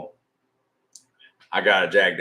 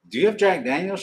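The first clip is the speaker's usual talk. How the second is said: mock question; 10 semitones higher, faster than usual. Retold asking waitress for whiskey.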